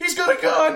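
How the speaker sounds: shrill, very high, alarmed scream. Retelling the moment cops pulled into the parking lot, retelling a scream. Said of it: "And I'm screaming".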